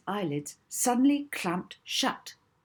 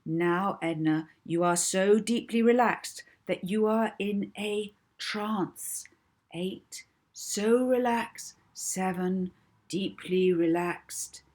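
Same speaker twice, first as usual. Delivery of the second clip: soothing voice; 4 semitones higher, 3 dB louder, slower than usual. Acted. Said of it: "her most soothing voice".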